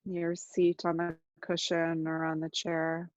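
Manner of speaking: unhurried meditation guide with long silences; guided meditation. Real, not acted. Teacher guiding listeners to notice their body, calm guided meditation. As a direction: ease listeners into noticing, leaving long pauses.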